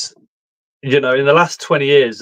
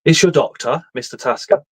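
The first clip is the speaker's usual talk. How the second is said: mock doctor voice. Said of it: "I says".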